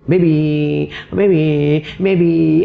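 mock-coy pet name, drawn out; coaxing, clingy wife. Wife sweet-talking her angry husband, mock clingy coaxing. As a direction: wheedle playfully like a pampered wife. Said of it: "isteri pergi manja-manja".

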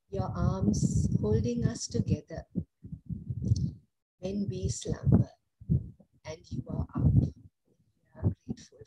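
earnest, measured prayer voice. Acted. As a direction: pray aloud for the congregation. Leads congregation in morning prayer.

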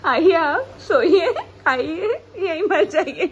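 sarcastic, drawn-out invitation with laughter; mock hospitality. Vlogger showing viewers the bad hostel room, mock-inviting. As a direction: play a sarcastically welcoming host, half laughing.

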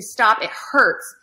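toned-down retold scream. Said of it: "and just kept screaming".

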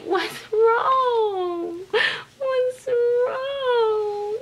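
very high, drawn-out pretend crying; hammed-up high weepy squeak; tearful cooing. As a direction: wail it in sympathy with a crying baby. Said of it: "I wanna cry with her".

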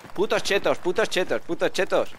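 high-pitched mimicked complaint; mocking a sore loser. Gamer mimicking the crybaby he just killed, mocking complaint. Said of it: "Ahora estará diciendo".

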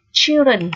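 put-on "children" opening on a strong ch; "children" said alone with a firm ch; pronunciation demo. Shown as a demonstration. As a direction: model "children" for learners, heavy ch. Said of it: "được phát âm là âm ch nặng".

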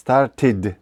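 "Started" as "star-tid", vowel before D; two-syllable "Started" ending in D; pronounced E in STARTED. Shown as a demonstration. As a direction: sound the E after T in "Started". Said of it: "букву І вимовляємо тільки тоді".

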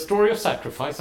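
puzzled question. Retold or imitated. Boss puzzled by the story.

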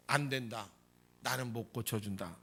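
low-pitched, firm refusal; 예수님의 거절. Acted. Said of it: "예수님께서 뭐라 그래요?". (낮은 음으로 단호하게 거절)

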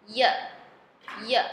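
"ye" said alone as a short y sound, then repeated; isolated "ye" sound. Shown as a demonstration. Teacher demonstrating the J-like phonetic symbol, isolated sound. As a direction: give "ye" as a bare phonetic sound, separately. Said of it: "这个音标发".

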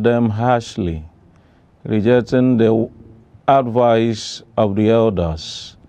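measured, even-pitched Bible reading; solemn lectern reading with steady phrasing; scripture reading. Acted. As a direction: read the verses out formally, pausing after each phrase. Reads scripture aloud on request.

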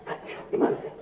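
breathy whisper, swearing on his faith; whispering the promise; whispered oath. Acted. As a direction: swear it under your breath. Swearing he is in love.

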